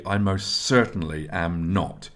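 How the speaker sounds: "most certainly" firmly stressed; weight on "certainly", then a firm "not"; emphatic. A narrator's reading. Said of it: "replied emphatically".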